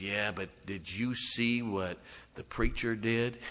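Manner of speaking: slow, sneering devil voice, lightly voiced; sly devil. Preacher voicing the devil accusing him before God, a lightly sneering devil.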